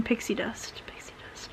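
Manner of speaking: soft whisper, musing. Real, not acted. Vlogger musing over the drug name, whispering it. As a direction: murmur it like a private joke. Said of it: "repeating the drug name".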